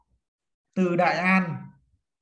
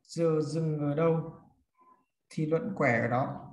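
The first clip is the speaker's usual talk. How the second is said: repeated dictation; 2 semitones lower, 4 dB quieter than usual. Shown as a demonstration. Teacher repeats rule for note-takers.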